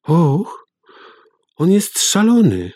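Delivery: put-on high frightened girl's cry. A narrator's reading. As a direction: cry out, scared of father. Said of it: "zawołała". (wysoki, przestraszony okrzyk córki)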